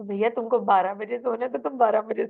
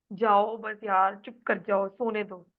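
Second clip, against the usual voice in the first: irritated sleepy. Shown as a demonstration. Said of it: "जैसे सच में इस वक़्त कोई पटर-चटर-कटर कर रहा है".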